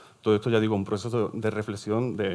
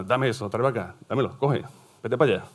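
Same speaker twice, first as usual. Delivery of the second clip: louder, curt Southern Spanish commands; mock-bossy orders, pitched up; blunt imperative; 2 semitones higher, 4 dB louder than usual. Teacher acting out orders that shock outsiders, blunt imperative. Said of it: "a la gente que, eh, choca".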